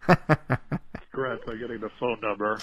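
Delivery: slow words through a chuckle; laughing. Real, not acted. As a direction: chuckle while you talk. Caller laughing while speaking.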